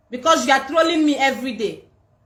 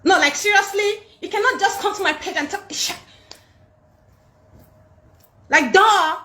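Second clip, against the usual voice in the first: mock American accent; 6 semitones higher than usual. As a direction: tease the trolls in a fake American voice. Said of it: "You think you're the only one that have American accent?".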